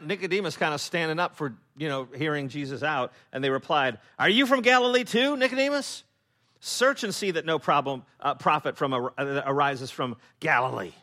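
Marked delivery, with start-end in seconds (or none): 4.2-10.9 mock him hard and loud; scornful outburst. Pharisees loudly ridiculing Nicodemus for defending Jesus.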